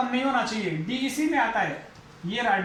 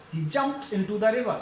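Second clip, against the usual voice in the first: slow demo; much slower than usual. Shown as a demonstration.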